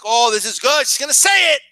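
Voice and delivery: mock thrilled viewer, rising as it goes; excited anticipation. Viewer waiting for her to pick, excitement building. Viewer awaiting the big reveal.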